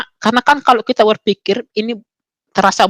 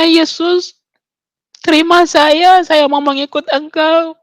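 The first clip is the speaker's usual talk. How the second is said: raised, earnest pleading; retold tearful prayer; 6 semitones higher, slower than usual. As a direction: re-enact a heartfelt surrender, without real crying. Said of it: "Saya nangis waktu itu".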